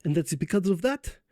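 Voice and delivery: put-on light Polish accent for a statesman. Poland boasting of its bond with the US, in a light Polish accent. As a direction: keep a light Polish accent on every word. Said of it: "oh, that's hard to say in this accent".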